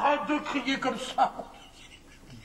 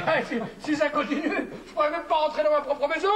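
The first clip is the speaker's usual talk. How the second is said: aggrieved, raised-pitch rant; indignant telling-off; 5 semitones higher than usual. Acted. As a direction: complain like the wronged master of the house. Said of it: "c'est pas moi qu'il faut engueuler".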